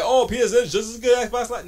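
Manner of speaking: high, fast mock fanboy voice; a high, quick sneering imitation of PlayStation fans. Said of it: "everybody's like".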